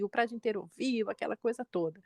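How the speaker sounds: usual speaking voice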